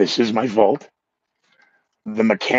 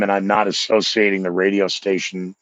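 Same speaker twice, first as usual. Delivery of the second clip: normal talking voice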